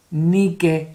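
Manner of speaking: Nike said nee-keh with pure vowels; Spanish vowels. Shown as a demonstration. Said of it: "So I, E".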